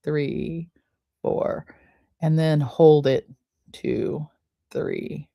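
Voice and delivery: a calm breathing coach counting; soft slow count. Shown as a demonstration. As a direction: count softly, letting each number hang. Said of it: "make sure you count the slow count of two".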